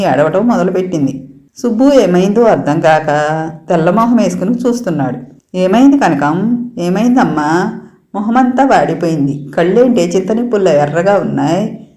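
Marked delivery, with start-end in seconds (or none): 5.6-11.9 consoling. Acted. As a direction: soothe her like a worried aunt. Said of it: "అని సముదాయిస్తుంది సూరమ్మ".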